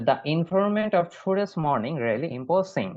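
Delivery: very slow, word by word; teacher dictating slowly; slow model sentence. Shown as a demonstration. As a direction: spell it out slowly for the class. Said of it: "উচ্চারণ খেয়াল করবেন".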